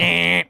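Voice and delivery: imitated wrong-answer buzzer; mock buzzer. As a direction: buzz them out like a game show. Mimics quiz buzzer on failed answer.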